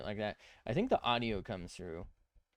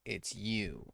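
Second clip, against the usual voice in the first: silly clown; much slower than usual. Pretend. Teasing at clown.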